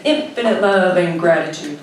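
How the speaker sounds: "Infinite love and gratitude." said loud and firm, falling; meant it. Acted. Ordered to mean it, she declares "Infinite love and gratitude." loud and firm. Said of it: "Say it like you mean it".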